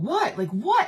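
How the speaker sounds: high mock innocent what; mock confused husband; playing innocent. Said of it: "he's like".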